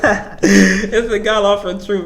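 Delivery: slow, laughing through the words; amused, unhurried laugh-talk; laughing repeat. Real, not acted. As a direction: chuckle as you say it again. Repeats the line, then laughs.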